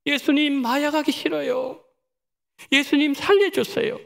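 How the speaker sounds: a touch of desperate pleading; mock tearful plea; pleading prayer. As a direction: cry out to Jesus lightly, begging. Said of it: "교회 나갔을 첫 마디가 이것이었다고 합니다".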